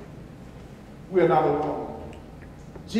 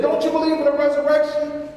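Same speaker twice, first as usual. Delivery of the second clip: raised, gently challenging question; Jesus pressing her to believe; Jesus asking; 8 semitones higher, 4 dB louder, faster than usual. Retold or imitated. Jesus asks the sister about resurrection, raised and earnest.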